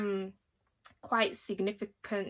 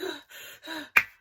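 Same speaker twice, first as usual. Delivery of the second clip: imitated gasp; 7 semitones higher than usual. Imitates mum gasping on the floor.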